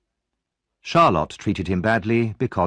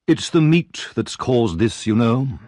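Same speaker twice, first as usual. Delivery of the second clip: pompous beadle; slower than usual. Acted.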